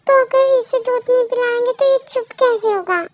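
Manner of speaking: high-pitched worried objection; upset protest. Acted. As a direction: argue anxiously for feeding the crying baby. Worried parent argues about crying baby.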